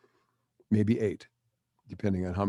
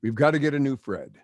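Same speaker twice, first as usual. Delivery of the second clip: mock exasperation; 5 semitones higher, 4 dB louder than usual. Staff scolding the fan who broke Fred, mock exasperated. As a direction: groan it like the robot just broke. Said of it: "they would go".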